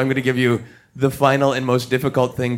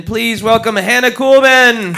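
loud, high, rousing welcome; showman's big raised introduction; announcing a guest; 7 semitones higher, 7 dB louder than usual. Real, not acted. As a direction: call the guest on over the applause. Host introduces guest on stage.

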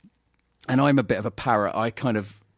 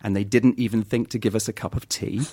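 Geordie accent; 3 semitones lower than usual. Shown as a demonstration. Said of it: "the little phrase is".

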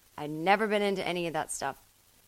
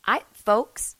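politician voice; 4 semitones higher, 5 dB louder than usual. Pretend. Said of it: "Elizabeth Warren just full on sounds".

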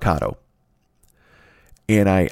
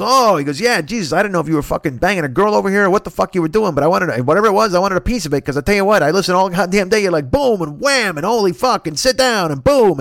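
excited neighbor, higher throughout; pitched-up guy rattling off the noises he hears; neighbor Lou; 9 semitones higher, 3 dB louder than usual. Retold or imitated. Neighbor Lou admits he listens all day, higher and excited.

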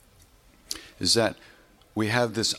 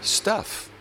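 breathy whisper; 10 semitones higher than usual. Real, not acted. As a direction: whisper the single word. Emphatic closing word.

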